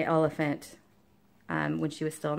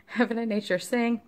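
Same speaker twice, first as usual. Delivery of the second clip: laughing; 5 semitones higher than usual. Real, not acted. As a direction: repeat the title with a laugh in the voice, higher.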